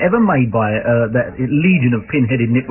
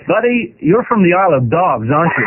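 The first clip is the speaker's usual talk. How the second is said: lightly voiced American cop; higher-pitched mock American policeman; American copper; 3 semitones higher than usual. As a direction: play the cop seeing through the act. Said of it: "I'll be the copper".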